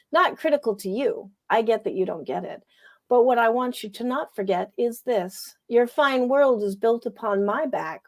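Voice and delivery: steady, measured poem reading. Acted. Reading her Earth poem to a friend, measured and steady. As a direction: read it out like a spoken-word piece.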